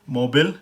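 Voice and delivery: मोबाइल said "mo-bul"; American mobile. Shown as a demonstration. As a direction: clip मोबाइल to "mobul". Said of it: "ये फ़र्क है इस तरह से".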